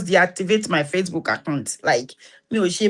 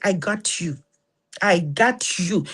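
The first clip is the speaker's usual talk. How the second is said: tender comfort; slower than usual. Retold or imitated. Tight hug comforting.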